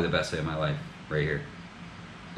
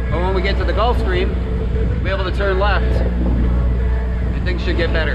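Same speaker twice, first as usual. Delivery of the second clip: raised voice over the wind; shouting over wind; 9 semitones higher, 9 dB louder than usual. Real, not acted. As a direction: talk loud over the roaring wind. Talking over wind at sea.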